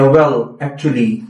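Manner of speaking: slow, even "Well, actually"; smooth filler phrase demo. Shown as a demonstration. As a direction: stretch it calmly to bridge a pause. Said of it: "इस तरह के words बोल सकते हैं".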